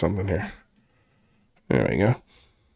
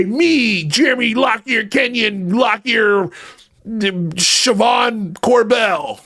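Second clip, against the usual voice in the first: mock Corbell rant; 3 semitones higher than usual. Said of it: "parodying Corbell".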